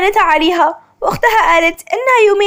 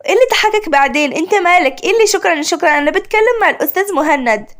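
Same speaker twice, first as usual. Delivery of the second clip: irritated; faster than usual. Acted. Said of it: "عشق بغيظ".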